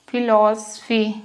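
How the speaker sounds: फिलॉसफी said slowly, f sound clear; slow demo. Shown as a demonstration. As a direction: stretch out फिलॉसफी syllable by syllable. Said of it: "फा का उच्चारण है".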